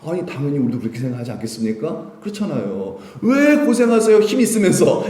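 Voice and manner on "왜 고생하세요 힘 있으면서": high, loud challenge; exasperated protest at his restraint; indignant questioning. Acted. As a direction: demand to know why, voice raised. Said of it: "베드로 생각이죠".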